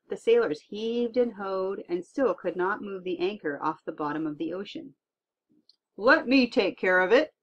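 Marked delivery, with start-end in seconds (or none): 6.0-7.3 louder, higher confident boom; the giant volunteers with a big voice. Acted. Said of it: "Stormy boomed".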